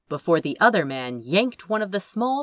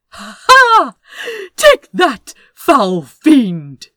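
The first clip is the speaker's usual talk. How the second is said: much higher, louder gloating cry; triumphant shout; 7 semitones higher, 12 dB louder, slower than usual. Acted. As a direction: crow in victory at the fiend. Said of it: "he shouted in a slightly higher-pitched voice".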